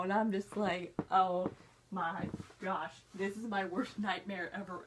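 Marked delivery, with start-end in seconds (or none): 1.1-4.8 low, sinking dismay; hammed-up stunned despair, softening after the first word; mock dread. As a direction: let the voice drop in stunned horror. Acting out dread at the ending.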